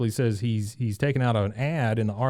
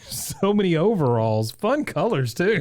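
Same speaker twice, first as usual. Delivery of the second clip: Peggy; 6 semitones higher than usual. Retold or imitated. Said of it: "Peggy says".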